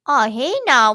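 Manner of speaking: loud mock intervention; alarmed calling out. Passing couple spots the beating, loud alarmed call. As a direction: call out to stop someone. Couple calls out to stop attack.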